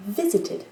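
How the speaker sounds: "visited" with only its first syllable stressed. Shown as a demonstration. Teacher showing the accent stays, "visited" stressed on the first syllable. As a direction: hit the start of "visited", leave two syllables weak. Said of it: "l'accent de mot ne change pas".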